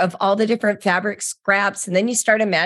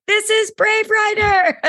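much higher, slow, beaming; friend's excited voice; 14 semitones higher than usual. Retold or imitated. Friend sending the clip, much higher and excited. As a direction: squeal it like a proud friend. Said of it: "She's like".

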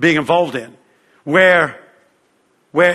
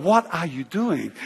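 inner voice; 6 dB quieter, slower than usual. Retold or imitated. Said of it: "in my head".

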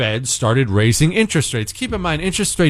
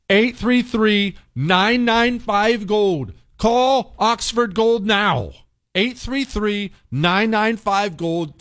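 slow ad read; 4 semitones higher, slower than usual. Real, not acted. Reading the phone number slowly.

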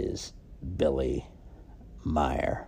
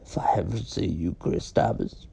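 menacing threat; 2 semitones higher than usual. Acted. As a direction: promise revenge under the breath. Threat to the host.

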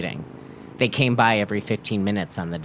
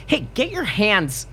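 threatening; 12 semitones higher than usual. A narrator's reading. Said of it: "Arthur threatened".

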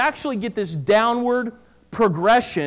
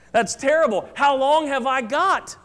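anxious; 4 semitones higher than usual. Acted. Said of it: "the man said".

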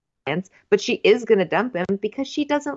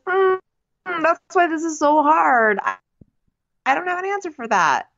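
mock sincere guy; 9 semitones higher than usual. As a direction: play the earnest bachelor, slowed way down. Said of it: "And he goes".

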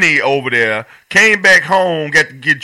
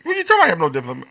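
mock confused; 3 dB quieter, much faster than usual. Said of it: "He like".

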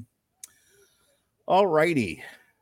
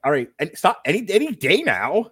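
impatient sarcasm; 7 semitones higher, 4 dB louder than usual. Retold or imitated. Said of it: "I was like".

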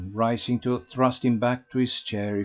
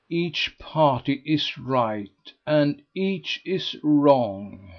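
slow, weighty verdict; pronounced; 3 semitones higher, much slower than usual. A narrator's reading. Mrs Mountstuart giving her verdict to the ladies, slow and weighty. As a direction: deliver it like a judge's ruling. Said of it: "She pronounced".

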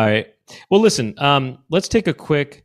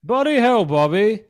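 high mock-English exasperated dad; comic British scolding; English Hank Hill; 10 semitones higher than usual. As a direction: curse in a pitched-up English accent. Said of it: "do an English accent".

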